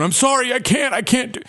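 high-pitched panicky pleading; mock freak-out. Store clerk imagining freaking out at a robber, mock panic. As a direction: exaggerate a frantic, high apology. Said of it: "freaking out and going".

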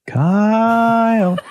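high, long held name; imitated pestering little sister; sister's nagging call. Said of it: "it was always something like this".

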